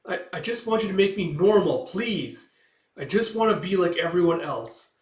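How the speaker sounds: beg, lightly hammed-up; mildly desperate appeal; pleading. Character begs to be made normal.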